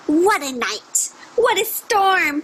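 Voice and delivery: slow, lightly voiced little bird; a hint of a chirpy wren, slowed down; twittering wren. Teacher reading aloud, a mildly twittering wren. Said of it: "twitters wren".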